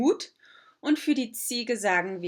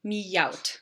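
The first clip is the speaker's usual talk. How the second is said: slow, clear example sentence; slow model sentence; much slower than usual. Shown as a demonstration. Teacher modelling the German sentence slowly. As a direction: spell out each word slowly. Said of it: "So we could say".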